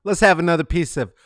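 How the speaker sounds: mock Jamaican, loud and high on "Hey, man"; hammed-up Jamaican patois, poorly done; comic Jamaican accent, exaggerated and sloppy; bad Jamaican accent. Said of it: "my Jamaican accent is horrible".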